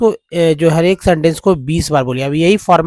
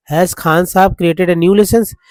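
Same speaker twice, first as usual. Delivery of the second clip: slow read-back; 3 semitones higher, slower than usual. Shown as a demonstration. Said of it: "question marks लगाना है".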